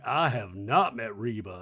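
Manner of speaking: little put-on Southern accent, low. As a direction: lightly imitate a Southern accent. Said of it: "does a little Southern accent".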